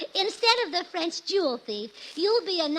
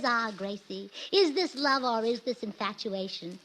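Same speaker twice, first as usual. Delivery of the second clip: French lover voice; 5 semitones lower, 4 dB quieter than usual. Retold or imitated. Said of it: "He says".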